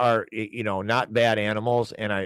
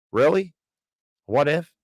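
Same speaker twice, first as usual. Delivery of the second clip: incredulous; 6 semitones higher, 5 dB louder than usual. Real, not acted. Mocking the news question.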